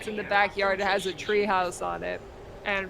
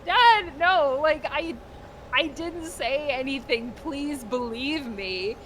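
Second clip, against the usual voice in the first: put-on scared pleading kid; 5 semitones higher than usual. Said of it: "starts getting scared".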